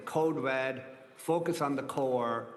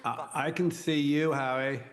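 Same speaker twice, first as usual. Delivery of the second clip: booming voice from sky; 3 dB louder than usual. Real, not acted. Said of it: "I sound like the voice of God here".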